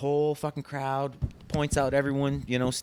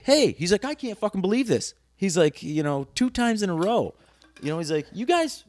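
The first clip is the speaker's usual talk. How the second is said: higher imitating voice; mock producer; 7 semitones higher than usual. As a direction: retell the producer's pep talk.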